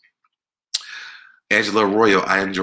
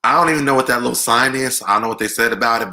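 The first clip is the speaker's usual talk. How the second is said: excited; 5 semitones higher, 3 dB louder, faster than usual. Real, not acted. Puzzled by an unknown symbol.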